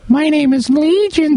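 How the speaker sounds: high, slow, eerie demon voice; half-done spooky demon impression of "Legion"; demonic voice. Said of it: "and I was gonna do the".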